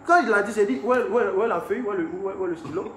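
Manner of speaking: mock-eager rush to sign; playfully eager, asking for the pen.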